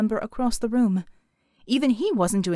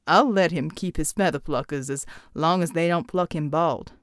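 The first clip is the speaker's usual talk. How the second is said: Pride's voice; 6 semitones lower than usual. Acted. Pride answering Mel.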